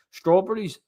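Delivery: imitating a grandma refusing food; mock picky nana. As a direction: whine it like a fussy old nana. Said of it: "I'm like".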